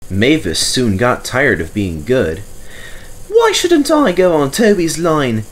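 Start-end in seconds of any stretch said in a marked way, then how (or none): 3.3-5.5 higher, louder sulky grumble; grumbling. A narrator's reading. Mavis sulking about Toby's line, grumbling. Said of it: "she grumbled".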